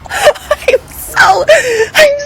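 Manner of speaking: real tears, voice breaking high and slow; crying in shock. Real, not acted. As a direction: choke the words out through real crying. Breaks down hearing friend's mockery.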